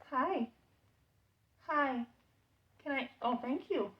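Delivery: gentle high dog-talk. Real, not acted. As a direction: coo at the dog like greeting a puppy. Greeting her dog who comes over.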